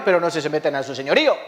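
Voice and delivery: normal talking voice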